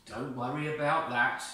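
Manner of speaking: a touch of comfort; calm his fears; reassuring God. Acted. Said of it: "God assured him".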